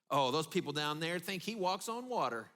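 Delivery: lightly sarcastic jab; a touch of sarcasm about an overrated coach. Retold or imitated. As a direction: say it with a mild eye-roll. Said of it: "We're saying it sarcastically".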